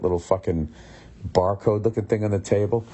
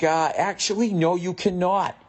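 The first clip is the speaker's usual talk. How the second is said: stiff refusal; 9 semitones higher than usual. Retold or imitated. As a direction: draw out the refusal officiously. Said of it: "who says it like that".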